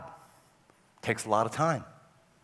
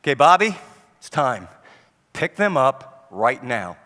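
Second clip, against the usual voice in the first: firm order; 2 semitones lower, 5 dB louder than usual. Retold or imitated. Parent giving the final order.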